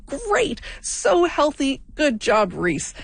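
sing-song teasing cheer; gushing like a proud parent; mock praise. Imagined listener praising Reese.

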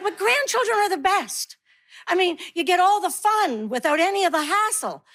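gushing friends. Retold or imitated. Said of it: "And they're like".

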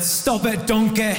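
bad Scottish accent, Shrek style; a hammy Scottish Shrek voice. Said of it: "that was a very bad Scottish accent".

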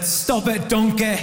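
a lightly voiced, bad Scottish accent; a throwaway Scottish accent that barely lands. Comedian quoting a Shrek line at a funeral, in a half-hearted Scottish accent. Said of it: "that was a very bad Scottish accent".

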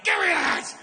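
high yelled grab; old man shouting. Retold or imitated. Old man on the beach yelling at teens, shouting. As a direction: bark it like a cranky old man snatching.

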